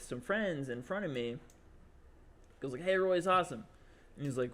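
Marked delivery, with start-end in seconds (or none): 2.8-3.6 mock crowd cheer, pitched up; heckler calling out. Audience guy praising the host, imitated heckler. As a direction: call it out like a fan in the crowd.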